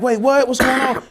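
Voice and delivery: high-pitched, confused alarm; retold alarm. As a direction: imitate a startled relative on the phone. Acts out cousin's alarmed reply.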